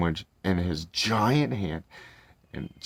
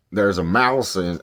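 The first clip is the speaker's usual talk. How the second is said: a hint of a big giant, louder and slower; giant's voice; 5 dB louder than usual. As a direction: attempt a booming giant, half-formed. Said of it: "let me do the Giants voice".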